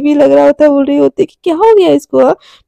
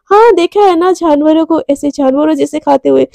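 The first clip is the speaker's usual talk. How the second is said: attitude. Acted. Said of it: "attitude में बोलती है".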